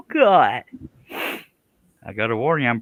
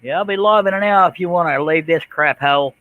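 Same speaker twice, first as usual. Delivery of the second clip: higher, louder mock Australian twang; mock Australian accent; 8 semitones higher, 8 dB louder than usual. Streamer keeps mocking his Australian guest's accent. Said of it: "I'm still talking like that".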